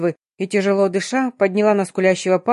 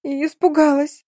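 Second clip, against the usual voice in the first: much higher, stretched tearful howl; drawn-out wail; 7 semitones higher than usual. Acted. Girl sobbing to her friend after the attack, drawn-out wail. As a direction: wail it out like a crying child. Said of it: "протяжно провыв".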